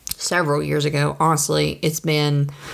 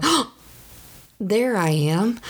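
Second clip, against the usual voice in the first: surprised discovery; 4 semitones higher than usual. Retold or imitated. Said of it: "I'm sitting here going".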